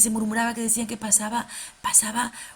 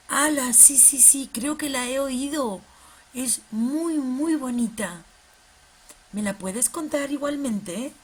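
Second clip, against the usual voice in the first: puppet voice; 2 semitones higher, slower than usual. Acted. Fede the puppet greeting Tati, bright and excited. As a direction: bounce it like an excited kids' puppet.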